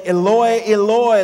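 crying out loud and high; a loud anguished cry. Retold or imitated. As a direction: call it out with full force, anguished. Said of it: "cried out in this loud voice".

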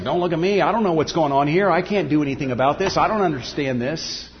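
hammed-up helpless babble; flustered Jesus. Imagined Jesus to his followers, mock flustered and fast. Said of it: "he's just as flustered as you are".

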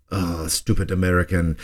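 lightly done mock French accent; hammy French accent, only half committed; bad French accent. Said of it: "it's my bad French accent".

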